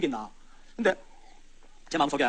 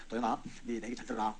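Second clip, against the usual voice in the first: soothing coax. Retold or imitated. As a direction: gently talk him round. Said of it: "달랬죠".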